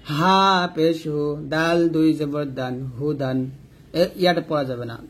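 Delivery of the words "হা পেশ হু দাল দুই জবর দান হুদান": measured recitation, long-held letter names; slow, even Qaida chant for learners to follow; Quran spelling drill. Shown as a demonstration. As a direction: spell it out rhythmically, syllable by syllable.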